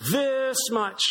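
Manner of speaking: high, excited small-bunny voice; little bunny stretching his arms, piping high; little hare voice. Acted. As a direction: play the eager little hare showing off. Little hare boasts in story.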